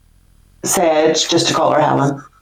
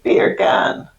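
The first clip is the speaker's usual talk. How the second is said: Jamaican-accent bacon. Shown as a demonstration. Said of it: "sounds like you're saying bacon in a Jamaican accent".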